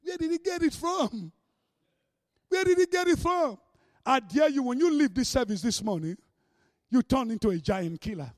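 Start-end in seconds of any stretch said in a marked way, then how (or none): 0.0-3.6 panicked hell. Acted. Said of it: "And then hell shake".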